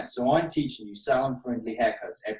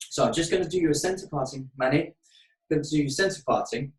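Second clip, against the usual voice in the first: higher and quicker, a chirpy salon patter; put-on client voice; 4 semitones higher, faster than usual. Shown as a demonstration. Stylist talking to her model Manny in a chirpy put-on client voice. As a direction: sweeten it up like chatting to a client in the chair. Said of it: "I don't speak like that usually with my clients".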